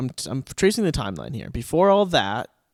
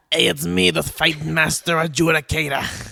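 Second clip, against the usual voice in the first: booming Viking adjudicator, slow and louder; 3 semitones higher, 5 dB louder than usual. Retold or imitated. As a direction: play a bold old fight master. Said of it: "This is what the adjudicator sounded like".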